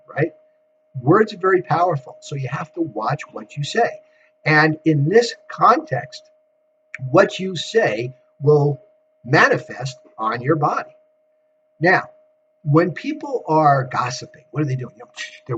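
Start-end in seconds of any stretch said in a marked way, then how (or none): 4.4-10.9 slow, deliberate delivery. Real, not acted. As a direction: spell it out slowly. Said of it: "Am I talking slow enough for you".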